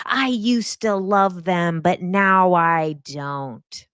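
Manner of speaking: slow, drawn-out imitation of a fickle follower; mock disillusioned fan. Imitating online commenters who turned on teachers, mock disillusionment. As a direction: stretch it out like a mock complaint.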